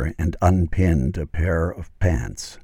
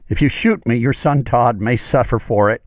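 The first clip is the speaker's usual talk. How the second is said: desperate blurt; 5 semitones higher than usual. Acted. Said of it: "Ike blurted out".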